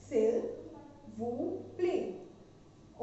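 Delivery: teacher modelling s'il vous plaît gently; French s'il vous plaît. Shown as a demonstration. Teacher showing students how to say please in French. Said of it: "please को क्या हम बोलेंगे?".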